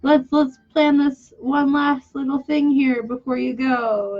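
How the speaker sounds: high, lightly voiced eager friend; friends' invitation. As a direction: mimic an eager friend making plans.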